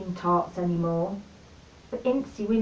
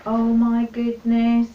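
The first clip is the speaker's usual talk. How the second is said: delighted cow; 6 dB louder, much slower than usual. Acted. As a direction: gush like a thrilled cow. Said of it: "said the cow".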